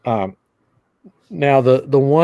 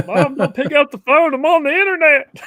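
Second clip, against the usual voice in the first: yelling across the room; 3 dB louder than usual. Acted. Dial-up era kid yelling at mom.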